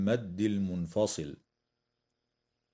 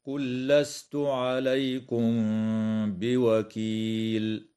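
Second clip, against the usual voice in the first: slow recited verse ending in a stop on بوكيل; unhurried tajweed reading; Quran recitation; slower than usual. Shown as a demonstration. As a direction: recite measuredly and pause at the end. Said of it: "هكذا".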